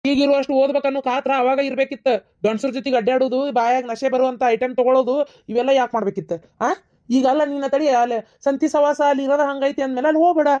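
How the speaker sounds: stern scolding. Acted. Father scolding his daughter over past behaviour, stern and angry. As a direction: scold and forbid firmly.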